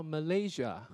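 MALAYSIA stressed on LAY; plain statement "Malaysia", LAY carrying the weight; second-syllable stress. Shown as a demonstration. Teacher showing students word stress, LAY stressed in "Malaysia". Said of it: "你是念第二个重音".

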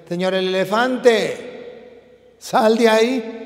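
slow, drawn-out call to the elephant; a hint of a small frog demanding; lightly voiced frog, slow and insistent; little frog calling.

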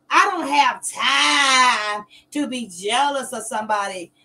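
slow, loud, half-crying protest; heated outburst. Real, not acted. Talking back to Steve, loud and tearful. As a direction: push it out with a crack of tears. Defending herself against Steve.

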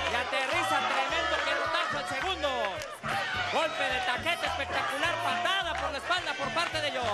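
lively play-by-play ringside call; wrestling commentator. Acted. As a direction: call the match live, caught up in it.

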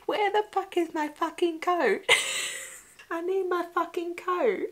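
imitating an angry man yelling for his coat; mock angry shout. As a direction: echo the rant in a playful mock yell. Repeating the film character's line.

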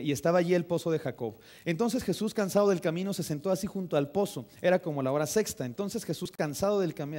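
projected, emphatic Bible reading; brisk scripture reading. Real, not acted. Pastor reads the Gospel of Juan to his congregation, brisk and projected. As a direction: read the passage out briskly to a congregation. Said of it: "Lo voy a leer rapidito".

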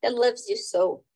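theatrical play reading, character lines acted lightly; dramatic reading. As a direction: read the play aloud like a stage scene.

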